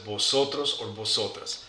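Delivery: "vosotros or vosotras" with a b sound for each v; V pronounced as B. Shown as a demonstration. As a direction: model "vosotros" and "vosotras" starting with b. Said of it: "So we pronounce it".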